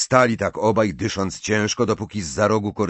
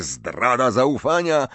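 higher-pitched cry of reproach; imagined shouting; 5 semitones higher than usual. A narrator's reading. Harry pictures Ron accusing him, crying out. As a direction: accuse a friend of betrayal. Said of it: "wykrzykującego coś takiego".

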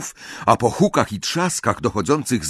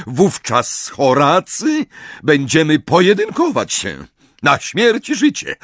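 stern professor voice; 5 semitones higher, 4 dB louder than usual. Acted. McGonagall warning Slughorn.

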